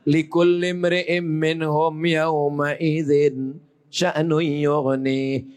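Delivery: slow, low intoned verse; slow recitation. Acted. Preacher closing the verse, slow solemn recitation.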